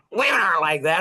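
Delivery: mock-sassy retort, imitating mom. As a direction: talk back like a feisty mother. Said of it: "She'd get all sassy and poosty".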